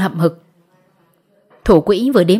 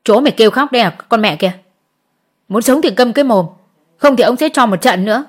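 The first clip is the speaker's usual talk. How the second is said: shout; 2 semitones higher, faster than usual. Acted. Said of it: "gân cổ thét ra".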